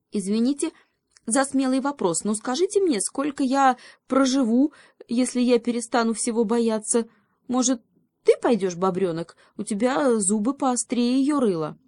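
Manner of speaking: high, nervous little hare voice; a scared hare pleading for its life; timid hare. A narrator's reading. (испуганный заяц, высокий голос)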